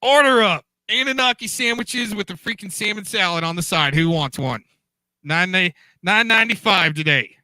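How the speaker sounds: upbeat order-up counter call; diner waitress. Pretend. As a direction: sell the daily special like a waitress. Hawking sandwiches like a diner.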